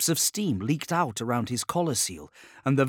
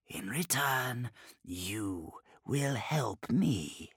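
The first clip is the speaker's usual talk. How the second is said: demon voice; slower than usual. Acted. Demon bargains with Scrivok.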